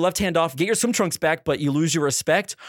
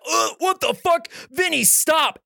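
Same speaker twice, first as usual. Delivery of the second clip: high, strained mock protest; recoil, then order him off; grossed-out protest; 9 semitones higher, slower than usual. Man protesting crusty toenails on his chest, grossed out. Retold disgust, pleading to stop.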